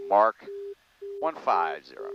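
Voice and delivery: loud callout, then easing off; calling out. Real, not acted. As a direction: punch out the mark call. Calling out test mark.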